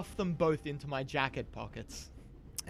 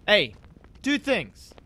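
accost a servant with brisk, raised-pitch points; peremptory demand; 3 dB louder, slower than usual. Acted. Player's character grabs a passing porter, peremptory demand. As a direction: count off complaints imperiously, punching the openers.

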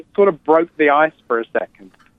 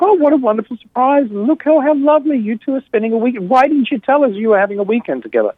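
high, delighted mum voice, much higher; excited mother; 12 semitones higher than usual. Retold or imitated. Son imitating his mother's delighted surprise on Skype, high and gushing. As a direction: gush like a thrilled mother. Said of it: "my mother was like".

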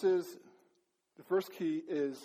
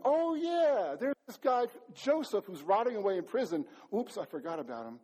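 jumps up high, then drops; excited "oh yeah" that fades to sheepish; sudden remembering; 3 semitones higher than usual. Retold or imitated. Cupbearer voiced remembering.

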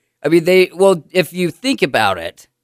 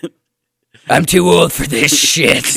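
gruff huffing badger. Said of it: "You got your badger voice going there".

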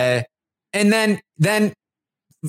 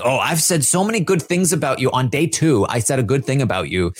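lower, lightly voiced fake-sweet mimic; mocking Jasmine; 4 semitones lower than usual. The speaker mocking Jasmine's fake niceness, sarcastic. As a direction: sneer through a sugary imitation. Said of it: "acting like".

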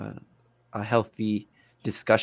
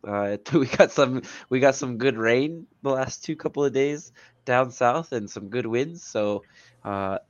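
congested, nasal voice from allergies; stuffy nose. Real, not acted. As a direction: talk through a blocked nose. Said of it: "sorry if I sound, uh, super nasally and congested".

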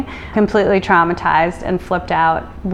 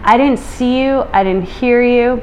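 mildly shocked, higher-pitched quote; retold shock; 5 semitones higher than usual. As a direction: imitate a man taken aback. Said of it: "he looked at us in shock".

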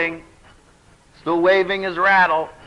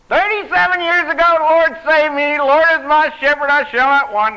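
much higher, louder mimicry of the old elder; elder testifying; 11 semitones higher, 7 dB louder than usual. Pastor imitating the elder testifying to the church, much higher. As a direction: ham up the elder's one-verse testimony.

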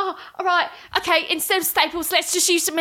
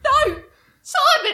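mock horrified cry; 14 semitones higher, 3 dB louder, slower than usual.

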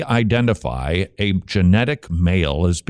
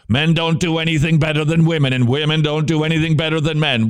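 mock feminist slogan; 5 semitones higher, faster than usual. Mocking the feminist narrative.

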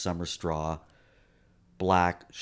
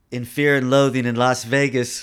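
retold loud quote; 4 semitones higher, 9 dB louder than usual. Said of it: "And then they go".

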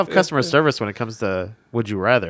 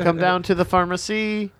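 higher, slow Jamaican lilt, like asking a question; Jamaican accent demo; 5 semitones higher than usual. Shown as a demonstration. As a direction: show how the Jamaican line goes. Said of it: "You gotta act like you're what?".

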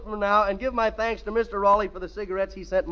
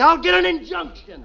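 high, loud mock yell of the producer; comic yell; 8 semitones higher, 7 dB louder than usual. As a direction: shout it out like a man running into the street. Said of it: "ran out in the street yelling".

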